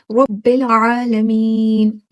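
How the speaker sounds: very slow रब्बिल आलमीन with sharp ain. Shown as a demonstration. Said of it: "ऐसी sharp आपने voice निकालना है". (धीमे तेज़ ऐन के साथ रब्बिल आलमीन)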